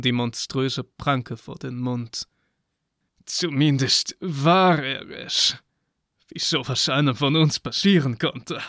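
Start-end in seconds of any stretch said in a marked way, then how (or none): 3.2-8.6 sly goat man voice. Acted. Satyr, dismayed, hand over mouth.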